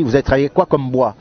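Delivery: lightly put-on African accent; a hint of an African accent. Boss questioning an immigrant worker in a sketch, light African accent. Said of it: "avec l'accent africain comme ça".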